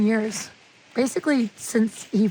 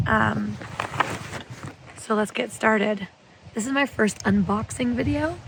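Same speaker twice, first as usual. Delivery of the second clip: hoarse, raspy sick voice; rough voice like a chain smoker; smoker's rasp. Real, not acted. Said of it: "my voice is sounding like I'm a chain smoker".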